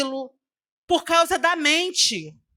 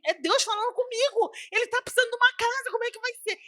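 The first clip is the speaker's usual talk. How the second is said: higher, anxious questioning; retold anxious weeping; 9 semitones higher, 5 dB quieter, faster than usual. Woman agonising over giving her house away, anxious and tearful. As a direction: fret through tears, pitch up. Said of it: "E eu chorava".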